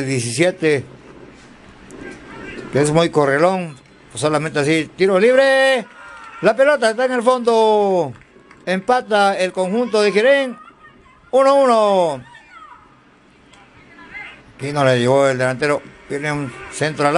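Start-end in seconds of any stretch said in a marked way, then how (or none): 5.0-12.2 excited goal call. Real, not acted.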